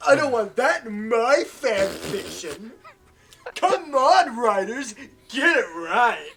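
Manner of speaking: loud. Pretend. Mock complaint to the writers.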